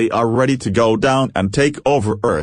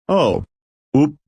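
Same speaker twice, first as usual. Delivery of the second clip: a bright, higher little oh; brightly; 7 semitones higher than usual. A narrator's reading. Iota spotting something in the book, bright. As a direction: chirp it, pleased.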